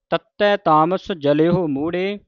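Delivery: rest after ਮੂੜੇ; pause after word. Shown as a demonstration. Teacher models the visram, resting after ਮੂੜੇ. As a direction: read through to ਮੂੜੇ in one go, then pause. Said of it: "ਮੂੜੇ ਤੇ ਵਿਸਰਾਮ ਲਾਉਣਾ ਹੈ".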